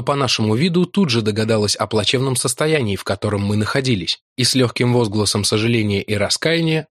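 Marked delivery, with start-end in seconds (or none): none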